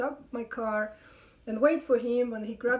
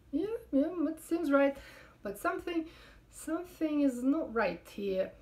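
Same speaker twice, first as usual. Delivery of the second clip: high, soft mock policeman; lightly voiced high policeman; 4 semitones higher, 4 dB quieter than usual. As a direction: lift the pitch for the cop.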